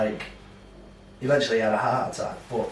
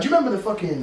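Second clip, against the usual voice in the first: imitating Nardwuar; 10 semitones higher, 5 dB louder, much faster than usual. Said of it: "he's like, he's like".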